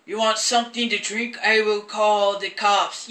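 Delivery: lightly voiced doctor, drawn out at the end; mock doctor, slowing on the last words; imitating the doctor. Imitating film doctor's slow speech.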